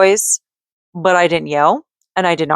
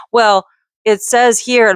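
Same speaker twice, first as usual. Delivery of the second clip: slow, louder, higher mock of the rep; 5 semitones higher, 3 dB louder, slower than usual. Mimicking the billing reps to her viewers, slow and mocking. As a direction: drag it out like a dismissive rep. Mimicking the reps' lame answer.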